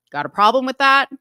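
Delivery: acted-out bitter comeback; a little bitter. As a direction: retort with a touch of bitterness. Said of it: "He's a little bitter towards her".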